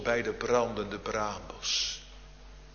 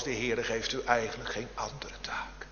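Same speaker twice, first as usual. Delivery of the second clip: whisper; 5 dB quieter than usual. Real, not acted. Intimate aside to baptism parents.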